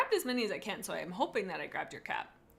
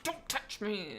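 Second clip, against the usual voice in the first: lightly acted angry refusal; mock mad; slower than usual. Cat snapping at someone reaching to pet her, mock mad. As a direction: put on a touch of temper. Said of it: "and she'd be mad".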